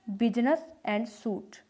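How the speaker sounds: slow, careful business and suit; demo pronunciation. Shown as a demonstration. Teacher modelling business and suit slowly for students. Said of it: "बिजनेस में देखिए यू जो है".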